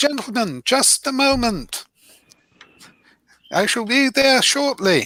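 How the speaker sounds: cheerful, very high gnome voice. Narrating a game scene, a voice calls from the back of the shop, happy. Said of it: "you hear a happy voice from the back".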